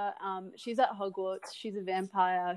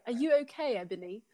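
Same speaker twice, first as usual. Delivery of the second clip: gently; faster than usual. Acted. Draco gently asks Ebony after the scolding, tender. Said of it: "Draco asked me gently".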